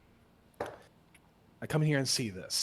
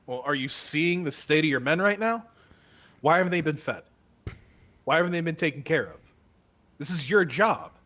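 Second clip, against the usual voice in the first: berating inspector; 3 semitones higher, 4 dB louder than usual. Acted. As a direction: tear into him for his men's state. Inspector berating captain's neglect.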